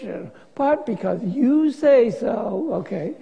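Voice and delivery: slow, sugary sarcasm trailing off; sarcastic. Retold or imitated. Peter sarcastically giving in to Jesus, slow and sugary. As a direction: make clear whose fault it will be. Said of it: "That really makes it really sarcastic".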